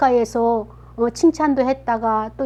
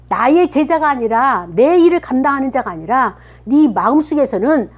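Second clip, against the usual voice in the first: acted reproach; 3 semitones higher, 4 dB louder than usual. Jesus confronting Peter face to face, reproaching him. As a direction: drive home each accusation with punched words. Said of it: "책망을 하시는 거예요".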